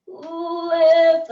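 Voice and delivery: loud, high, held-out word; drawn-out lift cue. Real, not acted. Coach cueing the final lift, drawn-out call.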